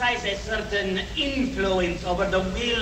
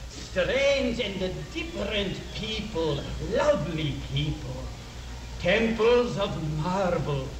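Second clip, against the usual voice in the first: hypnotic; 3 semitones lower, slower than usual. Acted. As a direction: lull her into a trance. Hypnotist inducing trance with imagery.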